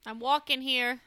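lightly hammed-up New York street line; mock New York accent. Cohost joking along about heading east, mock New York accent. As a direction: toss it out like a New Yorker, half laughing.

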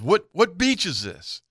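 high, slow retold question; puzzled lost boater. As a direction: ask it as a baffled boater, drawn out.

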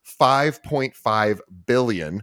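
slow, weighty "five point five billion"; "five point five billion" at half speed, word by word; dramatic emphasis. Shown as a demonstration. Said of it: "dramatic pause".

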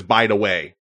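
put-on light Detroit accent on "By the way"; touch of Detroit in the vowels and consonants. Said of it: "in my best Detroit accent".

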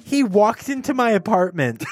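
high, slow imitation of a neighbor; upstairs neighbor. Neighbor revealing what happened last night, high slow voice. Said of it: "And she was like".

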